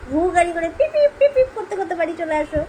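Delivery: put-on high, loud babyish pleading; baby voice to dad. Mother voicing baby, begging father to come home. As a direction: plead like the little one. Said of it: "বলতো".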